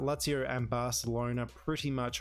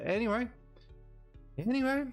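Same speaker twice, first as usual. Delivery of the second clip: exasperated; 10 semitones higher, faster than usual. Real, not acted. Brushing off the bad tackle.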